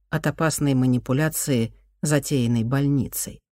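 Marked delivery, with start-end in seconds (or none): none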